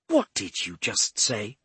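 slow, menacing snarl. Acted. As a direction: snarl the question at him. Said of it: "she snarled".

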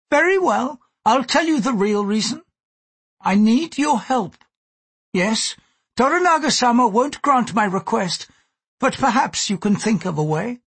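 high-pitched, controlled plea; sincere. A narrator's reading. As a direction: confide the real reason, earnest and controlled. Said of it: "said with complete sincerity".

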